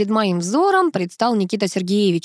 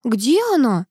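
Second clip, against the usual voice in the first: shout; 5 semitones higher than usual. A narrator's reading. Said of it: "заорала".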